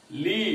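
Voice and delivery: "ली" as a separate syllable; syllable shown alone. Shown as a demonstration. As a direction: say "ली" alone, drawn out. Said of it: "तीन ठो यहां पर उच्चारण".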